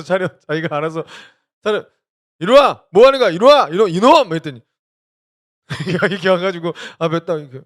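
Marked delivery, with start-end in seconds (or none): 1.6-4.3 loud, higher playful scold; mock scolding. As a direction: pretend to be stern with the toddler.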